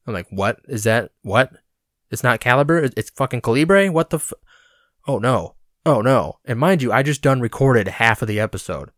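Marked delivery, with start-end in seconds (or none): 0.3-6.4 mock panicked squawks, rising and louder; hammed-up alarm at a wrong band name; retold panic. Realizing he mispronounced the band, mock panicked cries. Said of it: "and I panicked".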